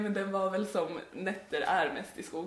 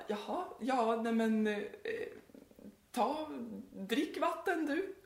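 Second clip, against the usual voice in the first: higher and slow, an unsure mock of dad; flustered dad; 4 semitones higher, slower than usual. Girlfriend's dad, baffled, telling the stranger to drink. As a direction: nervously wave him toward the water.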